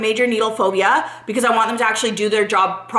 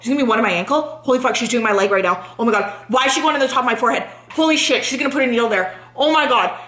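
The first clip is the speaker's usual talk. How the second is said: rushed, racing inner panic; inner freak-out; faster than usual. Retold or imitated. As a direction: replay anxious thoughts tumbling out fast. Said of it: "all I'm thinking is freaking out".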